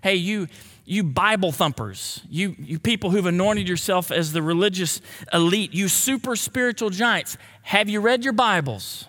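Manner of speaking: mocking, biting sarcasm; sarcastic reading. Shown as a demonstration. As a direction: sneer it at the religious elite. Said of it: "I'm gonna read it sarcastically".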